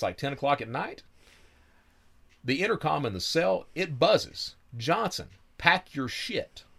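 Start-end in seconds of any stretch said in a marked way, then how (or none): 4.8-6.6 guard's call. Retold or imitated. Guard calling over intercom.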